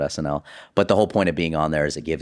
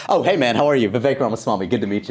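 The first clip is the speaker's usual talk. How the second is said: put-on Indian accent; 6 semitones higher than usual. Comedian as Vivek greets a passerby, high Indian accent. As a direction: play the Indian accent, surprised and friendly. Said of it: "the Indian accent and then getting interrupted".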